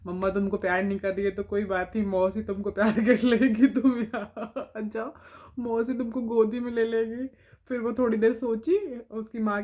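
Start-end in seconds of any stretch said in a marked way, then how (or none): 0.1-7.3 coaxing aunt. Retold or imitated. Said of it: "मैंने उसको बुलाया".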